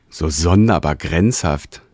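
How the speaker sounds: slow, thoughtful murmur; musing. Acted. Sensator pondering his new form, slow musing. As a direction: turn the thought over slowly. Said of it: "sinnierte der Sensator".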